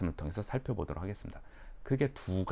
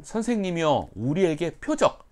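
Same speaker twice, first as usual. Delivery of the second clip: raised, louder pleading voice; pleading scribes; 7 semitones higher, 6 dB louder than usual. Retold or imitated. Scribes demanding a sign, higher pleading. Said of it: "서기관과 바리새인들이 한마디로".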